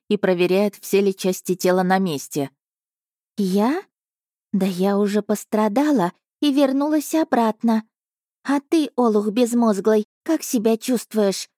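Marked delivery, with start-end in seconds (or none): 3.4-11.5 cat's snappy scolding. A narrator's reading. Cat Asha scolds Margus, higher, snappy scolding. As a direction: scold him as a relieved, cross cat. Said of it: "рявкнула она на Маргуса".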